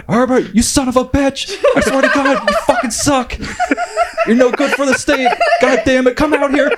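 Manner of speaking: put-on loud, high drunk Chicago yell; Chicago accent yelling. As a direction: bellow it in a Chicago accent at the governor. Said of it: "yelling in a Chicago accent".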